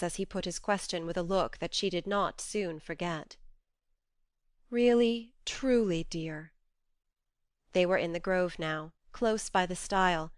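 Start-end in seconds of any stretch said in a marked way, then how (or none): 4.7-6.5 tender answer. A narrator's reading. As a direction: answer gently, sadly. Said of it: "He stopped short".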